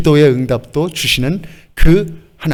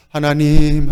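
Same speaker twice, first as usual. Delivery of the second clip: humble plea; much slower than usual. Shown as a demonstration. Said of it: "불쌍하게 겸손한 마음으로".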